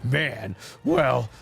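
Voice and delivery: lightly put-on cocky veteran fighter; in-character anime hero. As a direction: muse on your new form as the fighter himself. In-character verdict on his own form.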